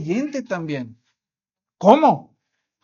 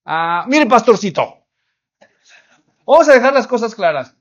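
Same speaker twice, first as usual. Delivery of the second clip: louder, indignant complaining husband; angry husband; 2 semitones higher, 4 dB louder than usual. Retold or imitated. Husband scolding the pastor about his wife, loud and indignant. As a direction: lay down the law, fed up.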